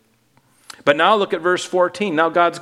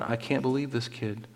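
hushed, lower amazed God muttering to himself; 4 semitones lower, 10 dB quieter than usual. Retold or imitated. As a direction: voice God stunned in disbelief, under his breath. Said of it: "with his mouth wide open going".

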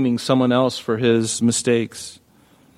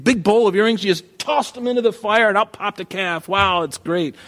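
sarcastic mock amazement; 6 semitones higher than usual. Mocking Aaron's miracle story.

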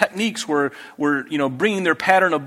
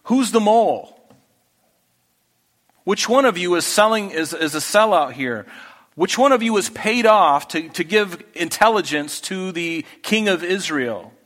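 mildly hammed-up angry interrogation, pitched up at first; angry king; 3 semitones higher than usual. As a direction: play a king demanding the traitor from his men. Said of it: "he had every reason to be angry".

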